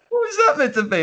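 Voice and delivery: high-pitched, imitated incredulous question; laughing disbelief. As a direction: laugh through a retold reaction. Retelling amused reaction to bad accent.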